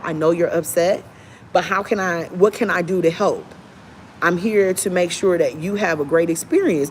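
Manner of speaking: calm an upset customer gently; polite service voice. Shown as a demonstration. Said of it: "demonstrates polite agent voice".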